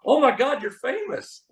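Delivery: high-pitched mock amazement; imitated starstruck gasping. Magician retelling a woman realizing he is famous, mock starstruck. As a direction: play her astonishment up high, without extra volume.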